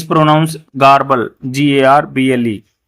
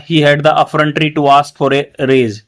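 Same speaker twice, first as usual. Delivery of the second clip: slow reread; much slower than usual. Shown as a demonstration. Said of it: "तो उसकी इतना दुस्साहस था".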